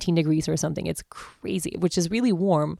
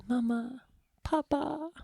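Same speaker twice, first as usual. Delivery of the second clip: put-on a light, higher little-girl voice; toddler voice; 8 semitones higher, 8 dB quieter, slower than usual. Mother imitating her daughter calling her parents, lightly higher.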